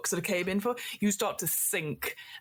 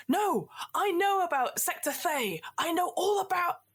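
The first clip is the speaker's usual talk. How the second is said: pirate captain; 10 semitones higher than usual. Acted. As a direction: taunt the computer with a secret. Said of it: "Captain Infrared Beard goes".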